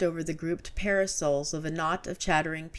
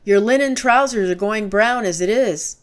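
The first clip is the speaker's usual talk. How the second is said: loud, raised warning; alarmed shout; 4 semitones higher, 9 dB louder than usual. A narrator's reading. Narrator warning Gibran about burning trousers, shouting. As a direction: yell a warning at him. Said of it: "I cried".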